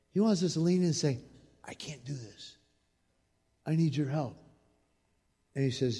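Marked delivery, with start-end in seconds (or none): 1.6-4.4 soft humble plea. Pretend.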